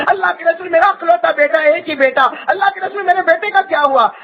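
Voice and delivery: high pleading, a touch of tears; anguished mother. Acted. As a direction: beg the Prophet, lightly voiced as the grieving mother. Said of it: "تڑپ تڑپ کر کہتی ہے". (تڑپتی ماں کی ہلکی سی روتی فریاد)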